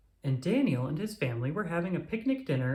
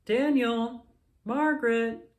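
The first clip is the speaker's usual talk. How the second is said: high, loud call across the yard; 9 semitones higher, 5 dB louder, slower than usual. A narrator's reading. Mom calls the children to the picnic blanket, loud call. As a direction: call the kids in for dinner. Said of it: "called Mom".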